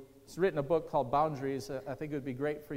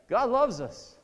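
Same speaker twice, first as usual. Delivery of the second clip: louder, higher, proclaimed; God loves us, belted higher and louder; emphatic proclamation; 6 semitones higher, 7 dB louder, slower than usual. Acted. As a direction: ring it out like a preacher's shout. Preacher repeats with emphasis.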